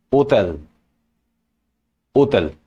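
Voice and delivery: "Hôtel" with a weighty, musical ô; "Hôtel" said with a heavier first vowel; heavier circumflex vowel. Shown as a demonstration. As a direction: lean on the opening ô of "Hôtel". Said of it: "makes the sound a bit heavier".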